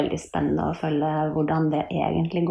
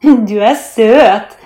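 slow, loud, raised cooing; teasing pretend voice; 4 semitones higher, 10 dB louder, much slower than usual. A narrator's reading. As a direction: tease him with drawn-out sweetness. Mia teases in pretend teacher voice. (ertende, tilgjort søt stemme)

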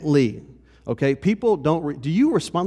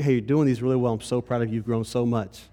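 softer, lower words of praise; sincere encouragement; 4 semitones lower, 4 dB quieter, faster than usual. Retold or imitated. Christ encouraging a believer before correcting them, sincere and softer. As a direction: gently reassure someone you're proud of. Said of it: "No, it's sincere".

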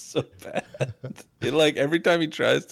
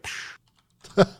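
breathy dismissive psh; a cool guy's psh; unvoiced cool psh. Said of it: "teach him to be like".

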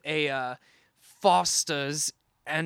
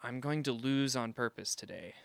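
unvoiced confiding whisper; 4 semitones lower, 8 dB quieter than usual. Real, not acted. Englishman confiding to the audience, whispered. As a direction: let it out under the breath. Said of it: "whispered aside".

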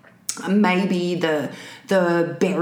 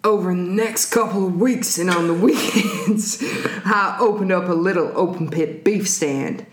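calm psychopath. Acted. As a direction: read the confession like a calm killer. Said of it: "then it turned into a singer".

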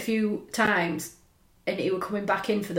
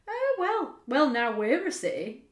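imitated dad; 5 semitones higher, slower than usual. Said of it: "phone to my dad".

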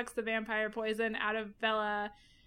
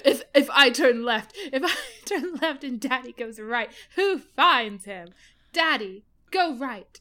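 laughing; 5 dB louder than usual. Retold or imitated. Quotes movie line laughing.

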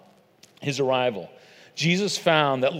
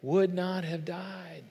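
pained grief; 2 semitones higher, slower than usual. Acted. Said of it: "all the pain and all the agony in her voice".

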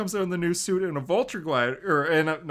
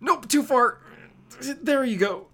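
higher, playful mockery; teasing quip; 9 semitones higher, 3 dB louder than usual. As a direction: tease the villain. Steering Vulture mockingly.

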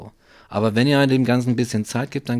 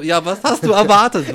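incredulous; 9 semitones higher, 7 dB louder than usual. Retold or imitated. Mock rebuke to plants.

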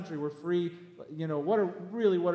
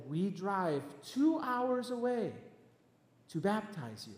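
gentle, slow quoted voice; Pastor Timothy; 4 dB quieter, slower than usual. Retold or imitated. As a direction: imitate a gentle pastor, unhurried. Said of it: "he's so gentle when he talks".

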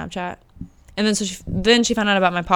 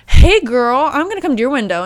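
imitating bubbly car hop; 5 semitones higher, 9 dB louder than usual.

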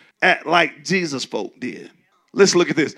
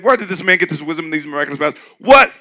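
mock townsfolk question; 6 dB louder than usual. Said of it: "That's what they said".

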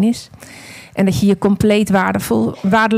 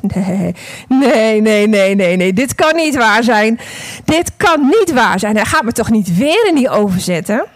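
panicked thought; 4 dB louder than usual. Acted. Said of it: "En ik dacht".

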